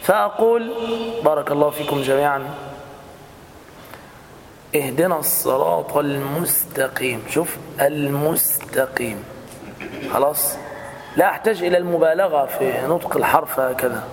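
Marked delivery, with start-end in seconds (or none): 4.8-9.2 slow, easy اهدنا الصراط المستقيم with no forcing; gentle recitation. Shown as a demonstration. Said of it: "باللطف في النطق بلا تعسف".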